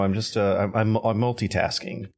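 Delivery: talking while chewing; mouth full. Real, not acted. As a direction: speak around a mouthful. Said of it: "are you eating?".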